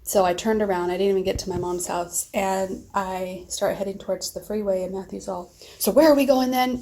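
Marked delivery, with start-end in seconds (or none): 5.8-6.8 high, loud puzzled ask; confused question. Retold or imitated. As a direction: sound baffled. Son confused asking direction.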